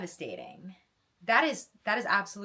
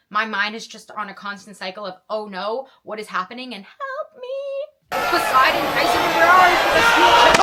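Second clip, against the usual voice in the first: panicked cry for help; 5 semitones higher, 16 dB louder than usual. Retold or imitated. Reader panicking over the battle, wailing for Poseidon and Tyson. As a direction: panic more with every word until you're calling for the gods. Panicked inner monologue reading climax.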